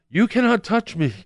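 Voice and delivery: high-pitched woman's voice breaking into laughter; imitated emphatic woman. Woman tells the man her touching rules, imitated high and laughing.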